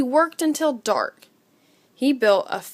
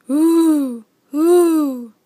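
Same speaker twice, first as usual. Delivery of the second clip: long, eerie hooting wind, louder; wind sound; 4 semitones higher, 5 dB louder than usual. A narrator's reading. Narrator voices the night wind for Little Owl. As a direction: moan it like wind in the trees. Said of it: "came the sound again".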